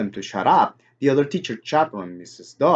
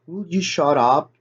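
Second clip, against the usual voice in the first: louder than meant; 4 semitones higher, 3 dB louder than usual. A narrator's reading. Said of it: "I came out louder than I meant it to".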